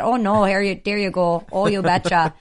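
a light Minnesota accent, cheerful. Shown as a demonstration. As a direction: slip casually into a Minnesota accent. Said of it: "it's really easy to fall into that accent".

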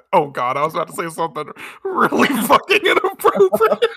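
cracking up while talking, pitch climbing; words breaking into helpless laughter; real laughing fit. Real, not acted. Host nearly says something inappropriate, real laughing fit. Cracks up at own dirty thought.

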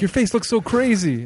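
mock freaked-out person. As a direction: play someone spooked by faces. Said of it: "They're like".

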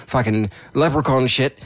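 Irish accent. Shown as a demonstration. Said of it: "I'm talking in an Irish accent".

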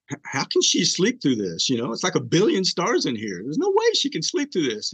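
amazed inner voice, pitch leaping high; retold disbelief. Husband marvels that his wife sleeps through this, incredulous. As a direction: recall an incredulous thought, voice climbing.

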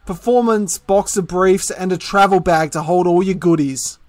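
upbeat podcast sponsor read; cheeky ad read, slightly lifted. Acted. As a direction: list the products like a promo. Reads sponsor copy.

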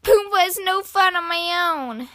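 put-on high, mildly upset child voice; lightly acted childlike sadness; mild sniffly complaint. A narrator's reading. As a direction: complain like a lonely little one. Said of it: "sniffled Flop".

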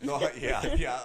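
creaky grandpa voice; old man voice. Pretend. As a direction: croak it like a frail old man.

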